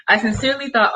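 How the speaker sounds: laughing through the words at herself; amused at her own naive younger self. Real, not acted. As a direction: chuckle while admitting it. Laughing at own childhood belief.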